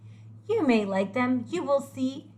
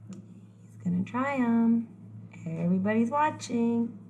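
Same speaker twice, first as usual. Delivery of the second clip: slow hushed whisper. Acted. Narrator telling listeners he will try them, slow whisper. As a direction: whisper it to the audience. Aside to audience as he tries.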